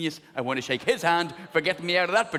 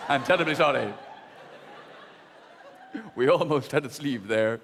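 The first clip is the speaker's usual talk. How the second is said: obsequious apology; 6 semitones lower than usual. Acted. Dressmaker apologising to bride.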